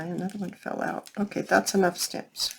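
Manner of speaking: ordinary talk, nothing marked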